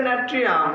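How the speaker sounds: natrium drawn out slowly, syllable by syllable; slow Latin name. Shown as a demonstration. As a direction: spell out natrium slowly for the class. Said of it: "উচ্চারণ হচ্ছে".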